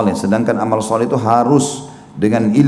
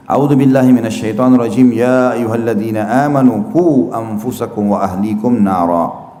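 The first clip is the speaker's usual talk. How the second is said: Quran recitation. Acted. (tilawah pelan dengan mad panjang)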